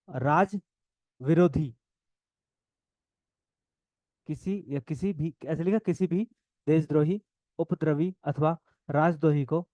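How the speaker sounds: measured classroom dictation with long pauses; word-by-word note dictation. Real, not acted. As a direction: dictate phrase by phrase, repeating for note-takers. Dictates notes to students.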